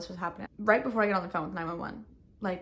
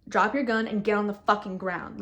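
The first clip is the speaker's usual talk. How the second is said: firm, slightly louder order; stern command; 5 dB louder than usual. Retold or imitated. Retelling Adam ordering the woman to drop her gun, stern. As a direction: lay down the law, no nonsense.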